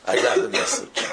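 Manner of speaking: breathy whisper of I got the message. Shown as a demonstration. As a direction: hush it like a realization. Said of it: "repeated, first whispered".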